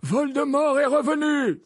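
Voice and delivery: high, slow, loud proclamation; emphatic declaration. Acted. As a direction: hammer the news home at full voice. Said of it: "répéta Dumbledore".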